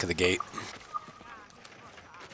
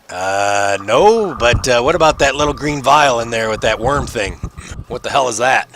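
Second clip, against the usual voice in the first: suspicious guard; 4 dB louder than usual. Acted. Guard questions vial.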